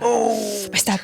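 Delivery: slow, breaking on the words; real tears welling while answering; slow crying voice; choked up. Real, not acted. Answer given while choking up.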